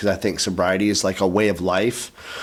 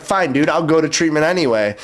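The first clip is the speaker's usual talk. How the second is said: higher, mildly exasperated retold retort; mad retort; 7 semitones higher, 3 dB louder than usual. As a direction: give in with mock annoyance. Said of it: "I was so mad".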